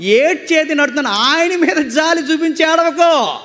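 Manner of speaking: forceful, sustained sermon delivery; preaching. Acted. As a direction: preach it out to a congregation, drawing out key phrases. (ప్రసంగ శైలిలో గట్టిగా బోధిస్తూ)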